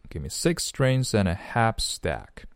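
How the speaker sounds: "strings and a" run together as one; linked speech. Shown as a demonstration. Teacher demonstrates linking, "strings and a" joined up. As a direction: link "six strings and a half stack" without breaks. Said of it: "连读".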